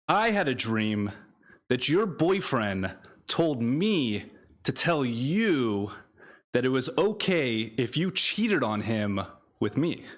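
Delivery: spaced-out spoken-word refrain; poetry reading. Acted. Poet tells a dream to a listener, measured recital. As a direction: recite it in short phrases with pauses, stretching key words. Reads second poem aloud.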